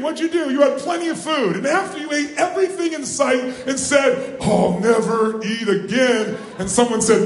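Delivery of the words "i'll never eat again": slow, drawn-out mock groaning vow; mock overstuffed vow. Coach mimics a stuffed Thanksgiving eater, mock vow. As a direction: drag out each word, hammed-up.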